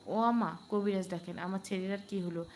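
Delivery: a touch of wailing; mild wailing. Acted. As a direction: lament lightly. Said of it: "কেঁদে কুল পাচ্ছে না".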